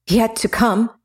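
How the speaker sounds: incredulous scoff; scornful huff. Acted. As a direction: throw the words back scornfully. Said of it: "Tamina huffed".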